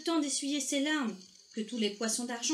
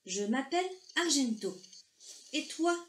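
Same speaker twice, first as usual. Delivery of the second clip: high-pitched, questioning little character; lightly voiced small fish, lifting at the ends; curious little fish; 6 semitones higher than usual. A narrator's reading. Little fish introduces himself to the big voice, curious.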